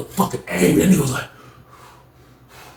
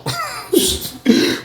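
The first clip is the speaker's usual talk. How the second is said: laugh; 4 dB quieter than usual. Real, not acted. Own laugh while telling story.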